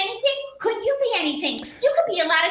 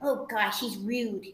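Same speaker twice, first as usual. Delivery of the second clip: much lower and softer aside; muttered aside; 9 semitones lower, 7 dB quieter, much slower than usual. Acted. Passenger mutters about the rude car, softly. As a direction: grumble it under your breath.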